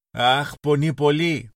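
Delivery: put-on a hurt child holding back sobs; child wailing that it hurts, nearly crying; on the verge of tears. A narrator's reading. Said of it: "φώναξε ο μικρός λοχαγός".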